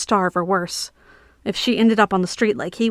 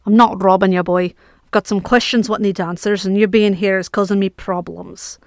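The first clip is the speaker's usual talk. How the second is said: lightly voiced knight, louder; a hint of an impatient knight; gruff knight; 4 dB louder than usual. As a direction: knight setting the boy straight, mildly gruff. Knight explains himself.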